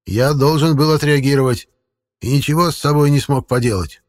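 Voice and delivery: lightly voiced old forest man; a hint of a folksy old man; creepy caretaker.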